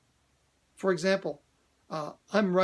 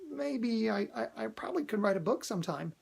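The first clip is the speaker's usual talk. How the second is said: hesitant quiet; 3 semitones higher, 4 dB quieter than usual. Shown as a demonstration. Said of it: "There's a big difference between".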